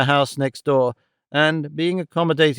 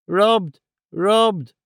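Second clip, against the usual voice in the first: put-on higher, panicked cry of an old man; screamed; 6 semitones higher than usual. A narrator's reading. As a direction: cry it out in horror, pitched up. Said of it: "screamed Arthur Greed".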